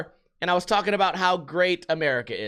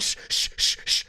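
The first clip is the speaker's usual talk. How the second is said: mock hushing. Bartender hushing as he returns.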